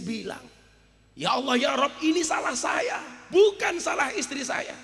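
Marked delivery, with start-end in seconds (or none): 1.1-4.7 rising, high-pitched appeal to God; preacher re-enacting a desperate prayer; retold anguished plea. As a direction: plead upward, climbing in pitch.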